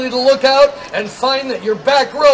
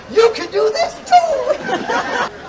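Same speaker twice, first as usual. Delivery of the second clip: laughing; 10 semitones higher, much slower than usual. Real, not acted. Joking to crowd, laughing.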